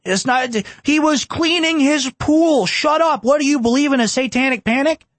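high, slow mocking sneer; mock the excuse in a high incredulous voice; sarcastic high mock voice; sarcastic mockery.

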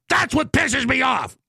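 high, drawn-out angry shout; real anger. Real, not acted. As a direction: shout it in exasperation. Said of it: "I'm mad because you're so ignorant".

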